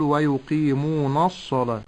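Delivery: "ويقيمون الصلاة" with a thick "nas"; wrong heavy nun. Shown as a demonstration. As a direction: darken the nun before the sad in "ويقيمون الصلاة". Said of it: "ولا أقول".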